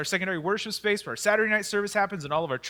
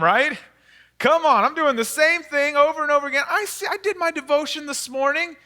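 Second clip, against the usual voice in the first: frustrated believer; 3 semitones higher, 4 dB louder than usual. Retold or imitated. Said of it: "We all say the same thing".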